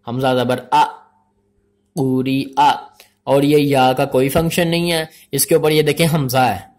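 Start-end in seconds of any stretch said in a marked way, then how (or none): 0.1-2.7 spelling-drill recitation. Shown as a demonstration.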